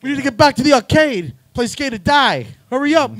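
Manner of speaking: put-on high, loud impatient kid voice; whiny kid robbers. Teen robbers rushing to the arcade, high whiny voice. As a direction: rush them like a bratty kid. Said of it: "like the Foot Clan".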